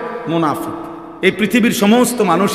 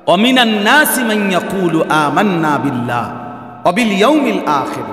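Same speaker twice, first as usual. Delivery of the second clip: Quran recitation. Acted. Preacher reciting the verse to the congregation, chanted.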